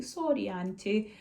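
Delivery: slow, drawn-out little sorry; imitated toddler apology. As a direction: stretch out a child's apology.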